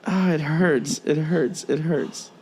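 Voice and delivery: softly lamenting, worn down; pained exasperation. Real, not acted. Host despairing at people who read only headlines, pained.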